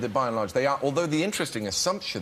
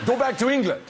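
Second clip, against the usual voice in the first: high, raised mock yell; angry crowd yell; 11 semitones higher, 4 dB louder than usual. Rejected fans to departing actor, angry yell. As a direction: call it out high like an irate fan.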